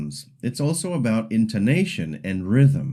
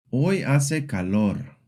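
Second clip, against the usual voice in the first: "Hoy hace calor" slowly, easing down on "calor"; plain statement, slight drop at the end of "calor"; falling statement; 2 semitones higher than usual. Shown as a demonstration. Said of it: "Statements usually fall slightly at the end".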